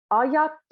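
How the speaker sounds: "ajat" with a crisp strong final T. Shown as a demonstration. Teacher showing the final T in "ajat". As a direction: bite off the last T of "ajat". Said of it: "there's a T again at the end".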